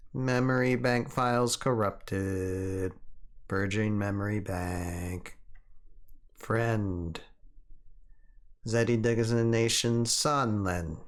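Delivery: slow, even machine voice; robot purging its memory. Pretend. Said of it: "You gotta do the robot voice".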